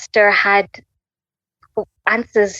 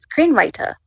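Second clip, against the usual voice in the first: voice of God; 7 semitones higher than usual. Retold or imitated. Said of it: "this voice just goes like".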